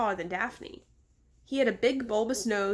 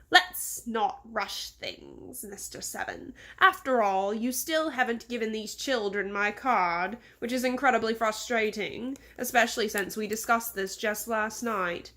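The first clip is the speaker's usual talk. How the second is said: lightly voiced English-accented chiding, drawn out at first; condescending English boss. Boss reminds Mister Seven about the card, condescending English accent. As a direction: chide your servant slowly, with an English accent.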